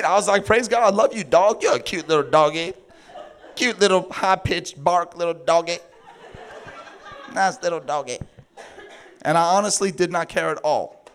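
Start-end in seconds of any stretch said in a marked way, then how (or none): 0.5-8.2 laughing cooing. Retold or imitated. Happy talk to the dog.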